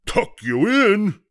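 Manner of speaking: slow, high, loud disbelief; drawn-out incredulous pirate question; bellow. A narrator's reading. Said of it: "he bellowed".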